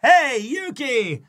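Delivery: high, slow, loud cheerful hello; cheery greeting. Retold or imitated. Nice husband greeting his wife on the street, cheery. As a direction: wave and call out brightly. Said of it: "I go".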